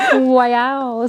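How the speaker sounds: "Wow" opened like "why"; drawn-out "Wow" that begins as "why"; why-wow blend. Retold or imitated. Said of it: "like a why and a wow mixed together".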